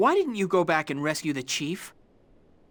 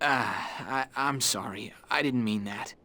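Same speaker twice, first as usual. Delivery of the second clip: sheepish apology; 8 semitones lower, 6 dB quieter than usual. Acted. Apologizing after hurtful remark.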